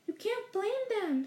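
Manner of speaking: slow, kindly reassurance; gentle. A narrator's reading. Old headmaster gently soothing a ruffled professor, slow and kind. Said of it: "said Dumbledore gently".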